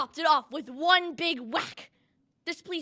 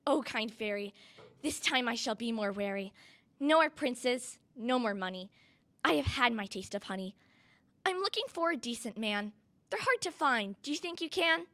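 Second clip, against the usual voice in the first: soft and gentle; 6 dB quieter than usual. Acted. Cinderella speaks softly.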